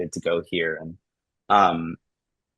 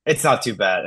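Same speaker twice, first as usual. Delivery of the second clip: emotive; 6 semitones higher than usual. Shown as a demonstration. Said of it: "I'll be emotive".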